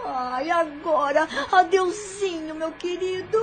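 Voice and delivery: sarcastic farewell. Acted. Villainess mockingly bids the prisoner farewell. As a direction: taunt him with a fake tender goodbye. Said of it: "rindo com sarcasmo".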